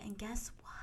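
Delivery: suspenseful whisper. Acted. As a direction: hush it like a secret. Dramatic reveal whispered.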